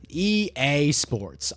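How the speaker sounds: slow drawn-out groan of disbelief; exasperated. Real, not acted. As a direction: stretch it out, fed up with the game. Exasperated at game result.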